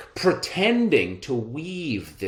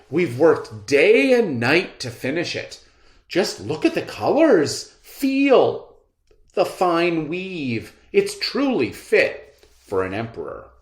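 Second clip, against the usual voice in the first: flattering swindler; 5 semitones higher, 4 dB louder than usual. Acted.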